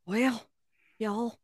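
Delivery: Southern drawl on request; Southern accent. Pretend. Cohost asked to tell the episode's beginning, put-on Southern accent. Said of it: "do it in your most Southern accent".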